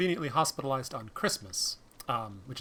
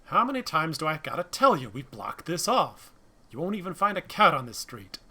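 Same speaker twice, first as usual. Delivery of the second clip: louder, scolding barricade cop; irritated cop; 7 dB louder than usual. Acted. Cop telling the driver the street is blocked, loud and irritated. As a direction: bark it at someone who won't listen.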